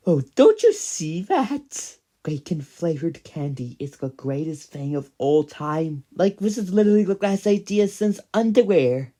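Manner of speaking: a high, gushing rave. Acted. Praising bacon candy, high gushing rave. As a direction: oversell it like a sales pitch.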